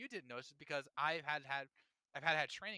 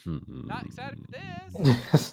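slow, hushed, unvoiced deadpan; slow hushed deadpan dismissal; deadpan disdain; 4 semitones lower, 13 dB louder, much slower than usual. Real, not acted. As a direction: drop all excitement, slow and hushed. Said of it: "excited for that".

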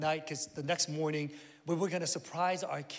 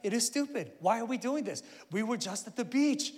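put-on inner whiny kid; 5 semitones higher than usual. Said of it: "My ten-year-old self was echoing".

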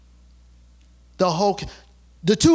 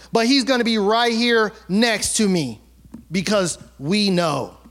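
Moses defiant; 6 semitones higher than usual. Acted. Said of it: "He said".

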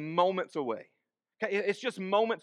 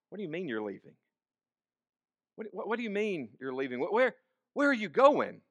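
growing anxiety; 3 semitones higher than usual. Acted. Disciple questioning his departing teacher, increasingly anxious. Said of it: "is an expression of anxiety".

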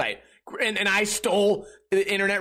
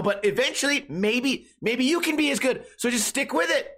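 high, sing-song patronizing voice, much higher; mocking condescending friend; 7 semitones higher than usual. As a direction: talk down sweetly like a smug winner. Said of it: "they go".

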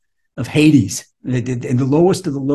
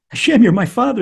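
with enthusiasm; 8 semitones higher, 6 dB louder than usual. Shown as a demonstration. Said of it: "until you say it with enthusiasm".

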